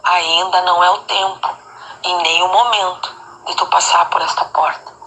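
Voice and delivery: low, measured words with solemn pauses; bem suave. Retold or imitated. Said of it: "Ele repetiu". (voz suave, grave e pausada)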